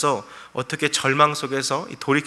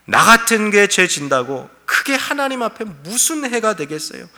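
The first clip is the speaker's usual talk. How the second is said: higher, louder mocking challenge to God; sarcastic retort; 4 semitones higher, 4 dB louder than usual. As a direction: throw the question back with scorn. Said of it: "하나님을 향해 비꼬며 말하는 거죠".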